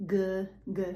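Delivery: repeated voiced G; voiced G sound. Shown as a demonstration. Teacher isolating the voiced G. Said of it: "that's voiced".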